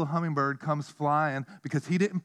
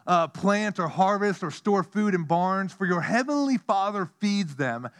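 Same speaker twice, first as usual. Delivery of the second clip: scripture quote; 2 semitones higher than usual. Acted. Quoting Jesus in preaching voice.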